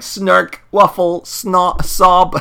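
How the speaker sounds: high, loud comic blubbering in separate bursts; mock sobbing. Podcaster voicing the crying villain's reply, mock sobbing. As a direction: read crying sound effects as hammed-up sobs. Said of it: "the guy starts crying".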